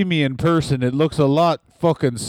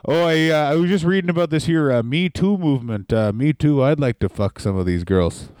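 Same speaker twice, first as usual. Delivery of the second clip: Tully Blanchard impression. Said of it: "That's Tully".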